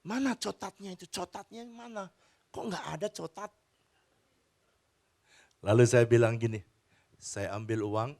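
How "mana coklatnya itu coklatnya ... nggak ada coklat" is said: put-on higher, softer little-girl voice with a lisp; plain, childlike whine; little daughter's voice. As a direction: ask like a small child missing her chocolate. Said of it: "dan anak itu bilang".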